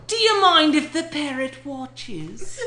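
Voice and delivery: laughing pirate pickup line. Acted. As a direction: ham it up as a pirate.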